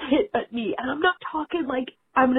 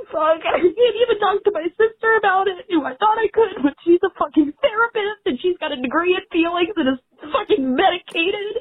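crying; 2 semitones higher than usual. Real, not acted. Caller crying.

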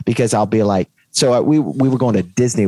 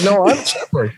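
put-on higher, matter-of-fact kid voice; imitating the son; 8 semitones higher than usual. Imitating her son correcting the agent, matter-of-fact. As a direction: answer flatly as the boy.

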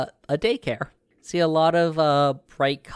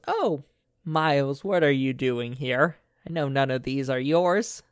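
put-on old woman voice. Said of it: "she looks over at you guys and goes".

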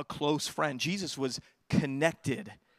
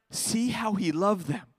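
tender echo; 4 semitones higher, slower than usual. Shown as a demonstration. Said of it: "repeats the verse".

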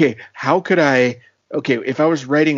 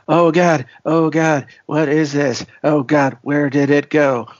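mock forced panic. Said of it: "pure forced panic mode".

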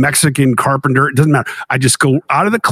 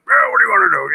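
mock warm; 5 semitones higher, faster than usual. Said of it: "he's got that warm face like".

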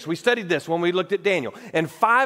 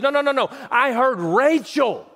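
voicing Jeremiah; 3 semitones higher than usual. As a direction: press it out like a grieving prophet. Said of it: "what Jeremiah says is".

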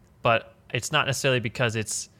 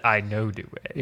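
meme quote; 2 semitones lower, slower than usual. Retold or imitated. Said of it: "you should have said".

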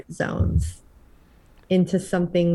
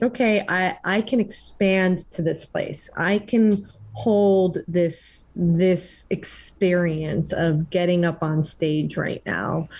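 calm self-talk; slower than usual. Shown as a demonstration. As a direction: talk yourself down gently. Demoing calming self-talk with breath.

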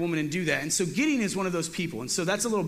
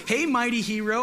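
much higher, louder sarcastic hail; mock sarcastic greeting; 6 semitones higher, 4 dB louder than usual. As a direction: hail the coward with mock praise. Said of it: "or so".

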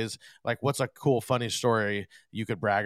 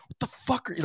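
mock angry artist; 11 semitones higher, 7 dB quieter, much faster than usual. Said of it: "like, mad at him".

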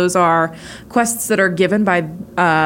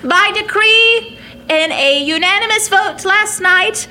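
grand rich voice; 10 semitones higher than usual. Acted. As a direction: announce it like a royal herald. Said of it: "stereotypical, uh, town crier".

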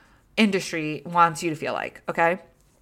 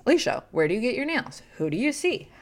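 nosy fans asking; 5 semitones higher than usual. Retold or imitated. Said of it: "Everybody always asks me".

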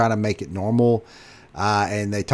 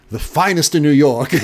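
with pride; 4 semitones higher than usual. Retold or imitated. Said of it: "They say that with such pride".

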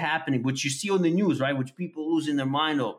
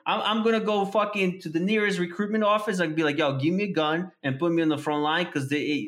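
fired up; 3 semitones higher than usual. Retold or imitated. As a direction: declare it like a soldier. Fired-up declaration.

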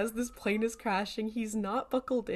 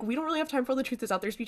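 rapid-fire Dean; 4 semitones higher, much faster than usual. Retold or imitated. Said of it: "Dean's like".

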